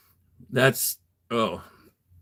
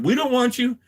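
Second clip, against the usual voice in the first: retold rejection; 11 semitones higher than usual.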